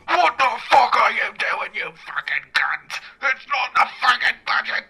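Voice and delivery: mock furious rant; hammed-up ranting boss; angry producer rant.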